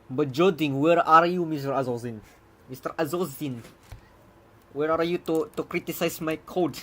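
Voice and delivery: hammed-up Slavic accent calling out; bad Slavic accent. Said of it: "that was very bad Slavic accent".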